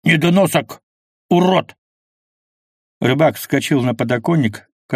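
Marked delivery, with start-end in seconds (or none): 0.0-1.8 louder, higher furious insults; furious roar. A narrator's reading. Kvas hurls insults at the fisherman, a loud furious roar. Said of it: "взревел Квас".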